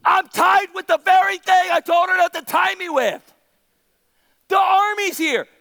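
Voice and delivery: mock indignant shouting; exasperated outburst. Preacher plays Samson waking up tied, loud exasperation.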